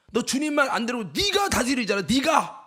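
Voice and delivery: imitated scolding cry from within; inner voice shouting. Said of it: "막 소리치는 거야".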